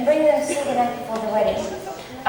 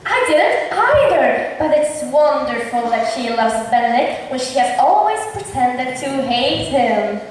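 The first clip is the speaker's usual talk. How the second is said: loud staged amazement; 4 dB louder, slower than usual. Acted. Loudly faking wonder for Benedict hiding nearby, hammed up. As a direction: overplay the surprise so the eavesdropper hears.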